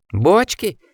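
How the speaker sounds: shrill, raging high-pitched rant; high furious voice. A narrator's reading. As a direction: rage at a fool, voice climbing. Osmond raging at the driver.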